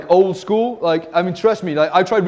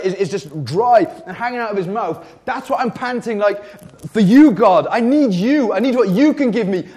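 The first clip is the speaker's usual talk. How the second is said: pleading, insistent and pitched up; desperate thirst; 2 semitones higher than usual. Acted. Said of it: "out of the depths of thirst".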